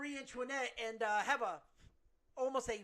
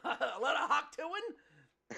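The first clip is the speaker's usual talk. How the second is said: laughing; 2 semitones higher than usual. Real, not acted.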